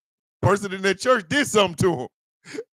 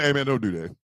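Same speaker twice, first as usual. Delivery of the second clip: mock crow voice; 8 semitones lower, 5 dB quieter than usual. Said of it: "a crow outside going".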